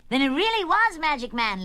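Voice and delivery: high, loud burst of realization; excited shout. Acted. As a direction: shout it as a thrilling discovery. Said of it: "Lenny shouted".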